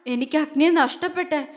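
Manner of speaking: loud, unhinged raving; raving like a madwoman. A narrator's reading. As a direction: babble wildly, obsessed. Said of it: "അവളൊരു ഭ്രാന്തിയെപ്പോലെ പുലമ്പിക്കൊണ്ട്". (ഭ്രാന്തിയെപ്പോലെ പുലമ്പൽ)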